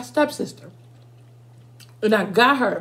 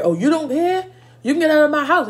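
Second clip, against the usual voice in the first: higher, sharper sassy retort; mock angry mom; 4 semitones higher, 3 dB louder than usual. Mom firing back at the boyfriend, sassy and angry. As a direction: throw his words back at him.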